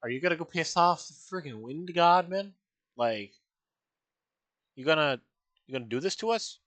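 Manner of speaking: loud, high nervous protest from the crew; worried crew. Retold or imitated. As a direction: raise your voice and pitch, questioning the captain. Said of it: "the crew being like".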